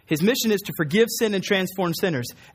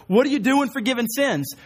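higher-pitched mock alarm; freaking out; 6 semitones higher than usual. Scribes challenging Jesus over forgiveness, mock freak-out. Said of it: "the scribes are freaking out".

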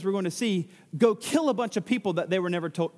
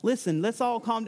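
lightly voiced Southern accent; a hint of a Southern drawl in the greeting; 2 semitones higher, slower than usual. Southern Levite greets the northerners, light Southern accent. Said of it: "That's a different accent".

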